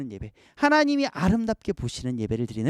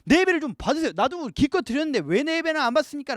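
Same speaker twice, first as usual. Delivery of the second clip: raised, indignant protest to God; angry Cain protesting; 5 semitones higher than usual. Pretend. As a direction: play Cain demanding to be accepted. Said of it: "화가 나가지고 막 하나님께".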